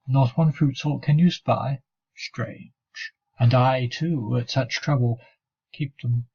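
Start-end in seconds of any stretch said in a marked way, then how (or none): 2.2-2.7 sly whispered aside. Acted. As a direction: breathe it out in a whisper. Muttered aside in the poem.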